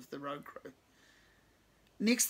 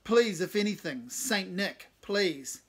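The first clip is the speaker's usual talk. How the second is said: mock serious; 3 semitones higher, 7 dB louder, slower than usual. A narrator's reading. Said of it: "apparently seriously".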